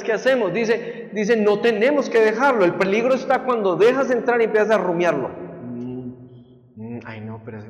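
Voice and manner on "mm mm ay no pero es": murmured, much softer and lower brooding; mock rumination. Preacher mimics a believer mulling it over, softly murmured. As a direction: mumble like someone chewing a thought over.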